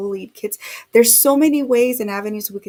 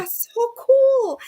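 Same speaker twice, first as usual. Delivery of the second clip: much higher, drawn-out delight; thrilled; 6 dB louder, much slower than usual. Real, not acted. Host reacts to scans on the live, thrilled and slow. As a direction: savour it slowly, really thrilled.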